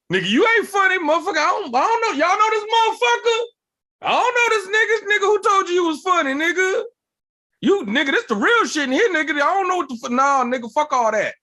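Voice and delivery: high, loud hammed-up heckling rant; abrasive drunk uncle. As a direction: cut the newcomer down like a drunk uncle. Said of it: "loud, abrasive, drunk uncle energy".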